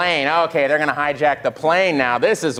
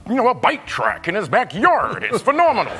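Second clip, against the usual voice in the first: Seth Rogen impression; 2 semitones higher than usual. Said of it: "I did a Seth Rogen impression".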